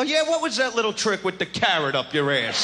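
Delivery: ordinary delivery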